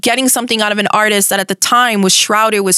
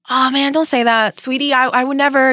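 lightly voiced sweet protest, pitched up; 5 semitones higher than usual. Rapper soothing a nervous radio host, mildly imitated sweetness. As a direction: gently reassure her, in a mild imitation. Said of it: "like, really sweet with me".

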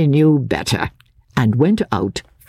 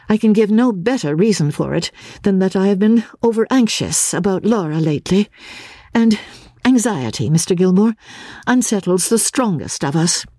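higher, a lightly voiced earnest young woman; Miss Halcombe; 5 semitones higher than usual. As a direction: answer as Marian, quick and slightly troubled. Miss Halcombe leaves, anxious.

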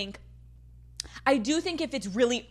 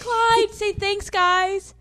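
high sing-song pet talk; talking to the dog; 10 semitones higher, much slower than usual. Real, not acted. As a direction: coo at the dog, higher.

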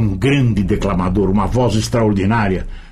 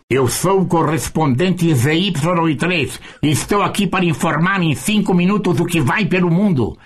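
Jorge Chamas lisp; 6 semitones higher than usual. Retold or imitated. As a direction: read the bulletin with a lisp, pitched up. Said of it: "anunciaram como se fosse o Jorge Chamas".

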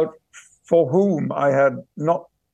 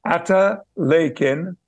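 slow, spelled-out Yorkshire dialect; 3 semitones higher, slower than usual. Shown as a demonstration. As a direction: demonstrate the Yorkshire phrase slowly. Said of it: "I was using a word that was hundreds of years old".

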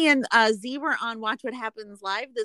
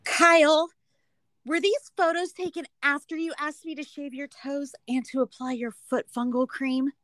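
hammed-up soap-opera outrage; dramatic reading as Natalia; 6 semitones higher than usual. Reading Natalia's comment to Kyle, hammed-up dramatic. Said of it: "like, a dramatic reading?".

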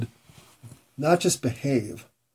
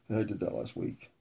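whispered realization; 10 dB quieter than usual. Retold or imitated. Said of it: "I'm like".

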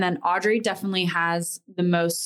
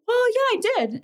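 put-on guilty kid; faster than usual. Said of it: "And you're like".

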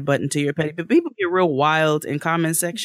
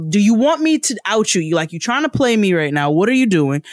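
raised, heated threat; angry threat; 4 semitones higher, 4 dB louder than usual. Retold or imitated. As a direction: call them out loud and angry. Threatening the rep on Twitter.

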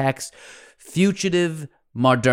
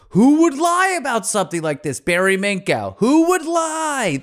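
mock disbelief; 8 semitones higher than usual. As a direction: ham up the stunned who-would-lie. Mocking the fraud victims' disbelief.

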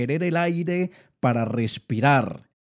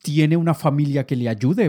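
whiny excuse; 2 semitones higher, 3 dB louder than usual. Retold or imitated. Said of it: "cantidad de historias que se inventan".

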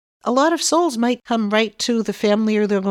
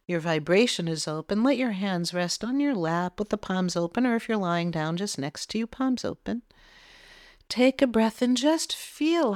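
soft, calm meditation voice, quieter; guided meditation; 4 dB quieter than usual. Acted. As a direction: lead them gently into relaxation.

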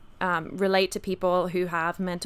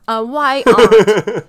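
put-on American accent; 12 dB louder, slower than usual. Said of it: "That was a very good question, Jacob".

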